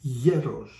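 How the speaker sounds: Hieros with a loud first syllable; stress on the E. Shown as a demonstration. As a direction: say Hieros as YE-ros. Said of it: "on the O instead of the E".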